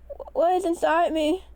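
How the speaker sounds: breathless scared whisper; frightened whisper. A narrator's reading. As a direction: whisper it in fear.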